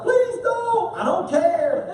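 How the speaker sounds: a mock high plea; lightly voiced pleading heart. His heart begging as he drives past the bacon place, mock high plea. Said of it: "my heart screams when I drive by".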